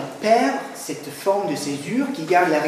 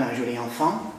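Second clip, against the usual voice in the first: accent only at the end, on "enfant"; stress on ENFANT; 3 semitones lower than usual. Shown as a demonstration. Lecturer gives an example phrase, stress on final "enfant". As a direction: let "un joli" run lightly into a stressed "enfant". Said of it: "à la fin sur enfant".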